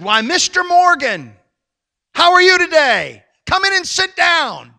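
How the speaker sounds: high, loud, effusive mock welcome; gushing bank lady. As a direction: imitate a banker fawning over her best customer. Cold bank lady suddenly gushing to customer.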